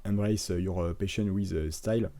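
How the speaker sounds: slow English with a thick French accent, no effort made; lazy French accent on English words; effortless French-accented English. Real, not acted. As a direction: read the English haltingly in a careless French accent. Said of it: "Avec mon magnifique accent anglais, là je fais aucun effort".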